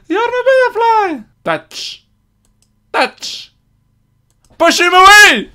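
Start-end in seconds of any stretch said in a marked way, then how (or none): 1.4-3.5 whispered. Acted. Voiceless repetition.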